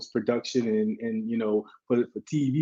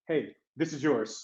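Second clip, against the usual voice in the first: hushed aside; 9 dB quieter, slower than usual. Retold or imitated. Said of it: "Josh literally had to be the mic like this".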